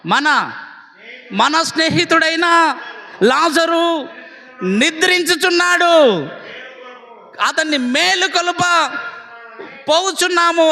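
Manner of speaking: lightly voiced Jesus rallying his followers; Jesus calling disciples. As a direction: stretch the words out high as you summon the disciples.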